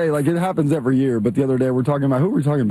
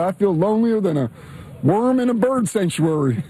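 put-on Southern accent; 4 semitones higher than usual. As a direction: deliver the simile in a Southern accent, slowing at the end. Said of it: "he puts a Southern accent on it".

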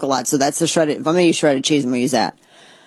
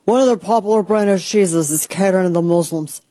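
mock announcer. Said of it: "I don't know why I'm talking like this".

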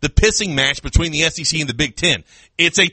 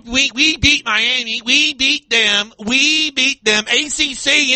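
high, slow gloating fan voice; mock fan boast; 8 semitones higher, slower than usual. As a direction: ham up a smug fan bragging. Mocking rival fans' boasting.

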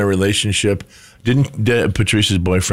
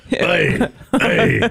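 attempted Roy Kent; 5 semitones higher than usual. Shown as a demonstration. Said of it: "How do you talk like him?".

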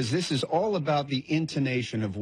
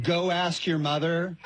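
bitter; 4 semitones higher than usual. Acted. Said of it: "like, bitterly".

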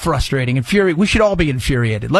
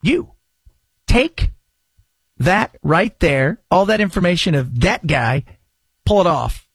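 mock order. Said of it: "they say".

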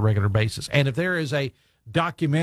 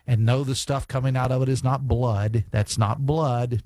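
ordinary delivery

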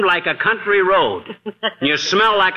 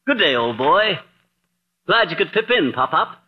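lightly hammed British toff accent, slipping on pip in; a touch of British toff that trips over its words; mock British accent, muddled. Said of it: "this Bond Street brogue".

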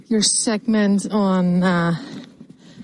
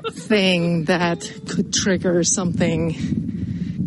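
laughing; much slower than usual. Real, not acted. Laughing while telling her theory.

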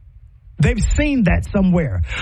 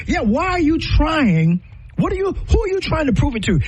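heated challenge; 9 semitones higher than usual. Real, not acted.

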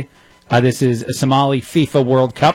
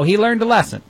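sarcastic; 8 semitones higher than usual. Real, not acted. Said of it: "I'm being sarcastic as I say that".

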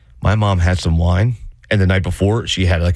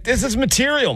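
friend's voice. Retold or imitated. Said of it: "she was like".

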